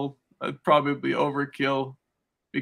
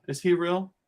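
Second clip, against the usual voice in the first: higher-pitched imitation of a curious girl; girls wondering; 4 semitones higher than usual. Girls coming up to the house, lightly mimicked, wondering. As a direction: lightly mimic an overheard question. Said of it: "I heard their conversation".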